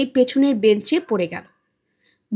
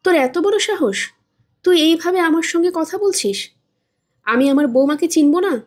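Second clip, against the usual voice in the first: indignant mother; 4 semitones higher than usual. Acted. Mother scolds her son.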